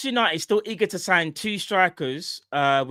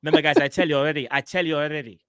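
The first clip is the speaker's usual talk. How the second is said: hyped reporter impression. Mimicking transfer reporter.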